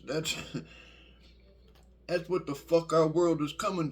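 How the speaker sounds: can't hold back a laugh of disbelief. Real, not acted. To viewers, laughing in disbelief at the worker's mistake.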